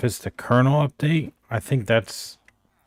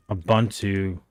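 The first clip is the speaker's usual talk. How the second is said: fur stuck in mouth; talking around fur in mouth; mouth full. Real, not acted. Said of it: "I got some fur in my mouth".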